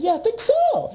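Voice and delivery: high, playfully coy reply; coy answer. Retold or imitated. He teases the lady who doesn't know him, coyly. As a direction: toss it off lightly high.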